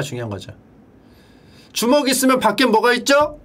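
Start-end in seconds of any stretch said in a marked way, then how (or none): 1.7-3.4 quizzing the class. Shown as a demonstration. Mnemonic question put to the class.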